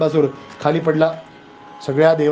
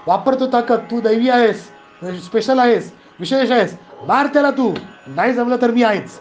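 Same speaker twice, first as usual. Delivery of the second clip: mild retold shout; 5 semitones higher than usual. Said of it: "कृष्णाने त्याला ओरडला".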